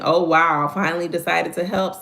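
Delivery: sarcastic. Retold or imitated. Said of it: "instead of saying".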